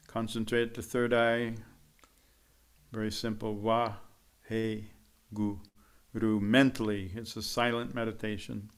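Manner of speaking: soft, hushed instruction with long pauses; guided meditation lead-in. Real, not acted. Teacher easing the group into silent meditation, soft and unhurried. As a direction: settle them gently toward silence, quietly.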